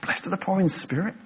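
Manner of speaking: rising, baffled question; puzzled echo. Retold or imitated. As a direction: repeat it like it makes no sense.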